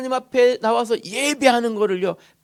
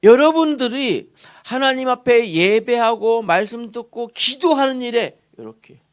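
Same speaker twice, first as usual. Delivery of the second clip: normal talking voice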